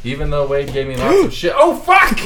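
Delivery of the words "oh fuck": sudden high yelp of surprise; startled shout. Real, not acted. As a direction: jump and yell. Startled by cat on notes.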